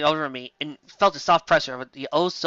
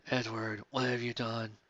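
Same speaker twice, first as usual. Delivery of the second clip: soft ghostly whispered call; eerie whisper; 8 semitones lower, 14 dB quieter, slower than usual. Acted. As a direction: call him like a spirit from beyond. Ghost voices speak through her.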